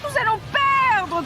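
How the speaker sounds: high, loud, slow worried cry. A narrator's reading. Sophie sees the doll take the lead and cries out, worried. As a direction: wail that you're losing. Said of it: "crie Sophie".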